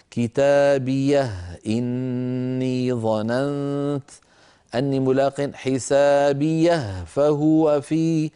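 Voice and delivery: slow melodic tajweed chant; Quran recitation. Acted. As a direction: recite the verse slowly and tunefully.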